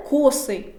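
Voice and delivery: «косий» з наголосом на першому складі; виділи О у слові «косий». Shown as a demonstration. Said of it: "Можна запам'ятати як коси". («косий», наголошений як «коси»)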